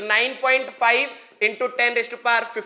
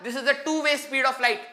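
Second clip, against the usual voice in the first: slow emphasis; 2 semitones higher, 3 dB quieter, much slower than usual. Shown as a demonstration. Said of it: "याद रखना".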